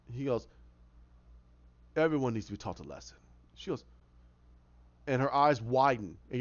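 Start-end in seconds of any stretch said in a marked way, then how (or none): 2.0-3.2 lower, quicker sinister line; menacing villain. Retold or imitated. Hatter warning Alice, low and sinister. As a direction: let the threat slip out coldly.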